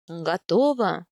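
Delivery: calm, low-pitched male question. A narrator's reading. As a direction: ask evenly, unbothered. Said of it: "спокойно спросил Аяс".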